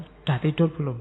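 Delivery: flat, wary question falling at the end; suspicious reading. Shown as a demonstration. Lecturer reading the same midnight text suspiciously. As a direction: read it like a nosy intrusion. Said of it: "emangnya ngapain tanya-tanya".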